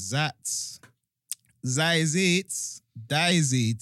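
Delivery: loud, high hype shout; big hype, belt it out; excited. Real, not acted. Hyped outro after a big tune.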